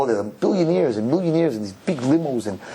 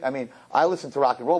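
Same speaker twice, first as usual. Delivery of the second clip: normal talking voice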